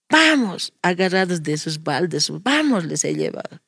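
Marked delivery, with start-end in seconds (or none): 0.1-0.7 put-on high, brisk call to children; rally the kids to come along; retold eager summons; acted rallying call. Acts out rallying her children. 2.4-2.8 acted rallying call. Acts out rallying her children.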